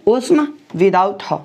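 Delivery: slow, separated words; slow dictation. Shown as a demonstration. Teacher writing out a formula for students, slow dictation. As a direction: lay out the formula slowly, word by word.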